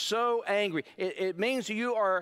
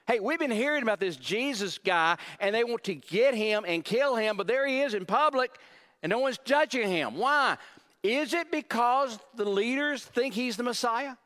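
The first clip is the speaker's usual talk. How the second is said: higher and louder, eager townsfolk chatter; excited gossiping residents; 5 semitones higher, 3 dB louder than usual. Acted. Residents of Jerusalem whispering about Jesus, excited and higher. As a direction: lean in like locals trading rumours.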